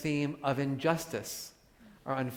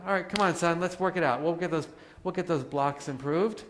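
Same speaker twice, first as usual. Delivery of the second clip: encouraging parent; 3 semitones higher than usual. Retold or imitated. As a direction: cheer your son on gently.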